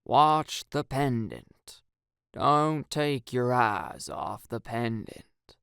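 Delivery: slow droning monotone. Acted. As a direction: hypnotist droning slowly, monotone. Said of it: "in a monotone voice".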